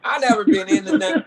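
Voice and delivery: laughing high through words. Real, not acted. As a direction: laugh while denying it. Laughing at the question.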